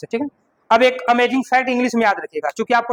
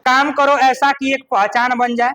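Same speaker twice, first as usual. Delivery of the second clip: reciting a couplet. Shown as a demonstration. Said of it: "एगो शायरी मार देता".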